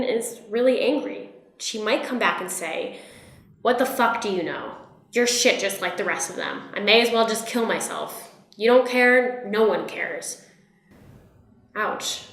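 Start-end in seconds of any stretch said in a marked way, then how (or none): 3.6-10.5 aggressive rant. Acted. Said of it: "in such an aggressive tone".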